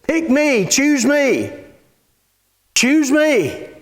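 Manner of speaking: put-on a kid begging to be picked; eager kid. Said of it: "like the kid over here that's jumping up and down".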